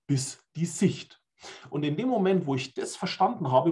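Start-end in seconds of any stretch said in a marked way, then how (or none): 0.1-1.2 slow word by word. Shown as a demonstration. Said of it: "in deutschen Wörtern würde der Spanier sagen".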